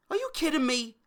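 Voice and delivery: high disbelieving cry, are you kidding; outraged disbelief; incredulous. Real, not acted. Fan ranting at WWE, incredulous. Ranting about wrestling booking.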